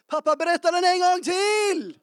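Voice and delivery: put-on high, loud child's plea, laughing at the end; imitating a shouting child. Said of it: "och så skriker han".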